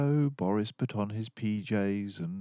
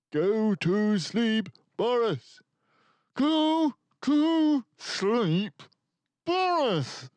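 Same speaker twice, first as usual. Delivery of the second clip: louder, higher, slower each time; badgering, building; 8 dB louder, slower than usual. A narrator's reading. Exasperated parents badgering Boris, louder and slower. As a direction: nag harder and harder. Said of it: "Papa and Mama badgered".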